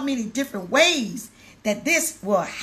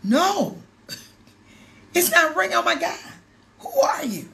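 excited passenger; 5 semitones higher than usual. Retold or imitated. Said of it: "He said".

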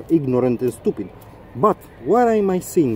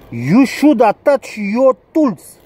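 higher, slow, preachy imitation of the instructors; mocking the school; 6 semitones higher, slower than usual. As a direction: parrot the school's rule in a mock lecturing voice. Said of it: "put the accent on the".

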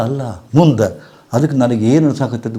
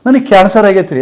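imitated woman; 8 semitones higher, 4 dB louder than usual. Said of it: "ಅಂದ್ಲಕ್ಕೆ".

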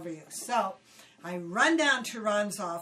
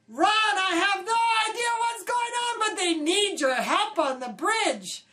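much higher, loud and flustered; nervous; 9 semitones higher, 6 dB louder than usual. Retold or imitated. Seasick young crew member nervously telling Ron he is needed. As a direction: blurt it out in a nervous rush. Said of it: "I say".

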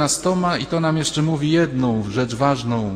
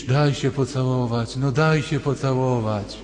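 put-on pleading boy. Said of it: "że się nie ślinisz".

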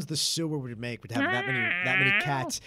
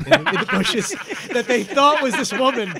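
laughing through the words, higher and louder; 12 semitones higher, 13 dB louder than usual. Real, not acted. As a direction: crack up while you say it.

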